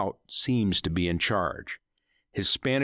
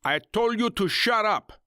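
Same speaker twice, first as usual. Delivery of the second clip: ringleader shouting; 14 semitones higher than usual. Acted. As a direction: bellow at the captive. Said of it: "the ringleader of the gang shouted".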